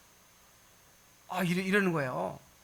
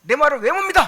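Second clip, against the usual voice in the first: loud, rising scolding; stern reproach growing to a shout; rebuking; 3 semitones higher, 8 dB louder than usual. Pretend. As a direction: rebuke the doubter, building louder. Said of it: "하고 막 책망하고".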